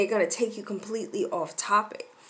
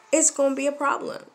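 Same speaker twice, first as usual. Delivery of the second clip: raised, firm parental warning; higher, emphatic telling-off; elevated voice; 4 semitones higher, 4 dB louder, faster than usual. Shown as a demonstration. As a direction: lift the voice a little to warn a child. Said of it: "My voice is gonna be elevated".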